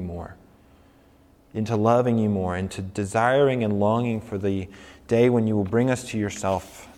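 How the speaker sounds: measured prayer with pauses; spoken prayer. Real, not acted. Pastor prays for the congregation after the sermon, measured prayer. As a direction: pray it aloud, phrase by phrase.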